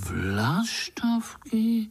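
slow, breathless whispered question; amazed whisper. Acted. Young spiders whispering in surprise about the swallows. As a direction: whisper it in wonder. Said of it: "podivili se pavoučci".

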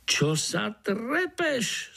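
slow, high Slovak mosquito; Slovak accent. Acted. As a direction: drawl it out in Slovak. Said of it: "po svém dunajský komár".

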